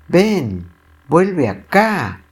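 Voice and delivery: high, slow shriek of a greedy crocodile. Acted. Crocodile chasing Serafín through the woods, shrieking high. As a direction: squeal it out high as you chase him. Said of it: "El cocodrilo lo persigue chillando".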